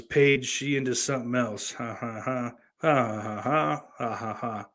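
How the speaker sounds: a hint of a Newcastle Geordie accent read from chat, ending in mock laughter; half-hearted Geordie, Newcastle lilt barely there; reading a chat line in a mild Geordie accent; lightly done Geordie accent. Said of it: "That was a Geordie accent".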